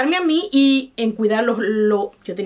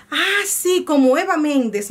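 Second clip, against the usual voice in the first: imitating husband; 4 semitones higher, slower than usual. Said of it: "lo primero que me dijo fue".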